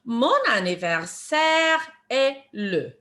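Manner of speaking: slow French phrase, words kept joined; measured teacher demonstration in one run; slow phrase model. Shown as a demonstration. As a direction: model the whole phrase slowly and clearly. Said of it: "the way we answer that".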